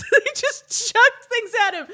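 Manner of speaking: high, loud, laughed-out words; helpless laughter. Real, not acted. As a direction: retell it while cracking up. Cracks up repeating the story.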